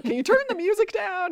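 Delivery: high-pitched mock complaint; annoyed yell. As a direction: call out over the music, imitating irritation. Annoyed man walks into loud music.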